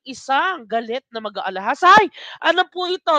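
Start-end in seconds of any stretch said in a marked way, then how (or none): 1.9-3.1 surprised ay. Real, not acted. Host reacts to quiz answers.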